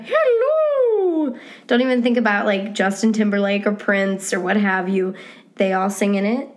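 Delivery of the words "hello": very high falsetto whoop and hello; head voice demo. Shown as a demonstration. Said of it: "So just go ahead and try that, Missus Doubtfire".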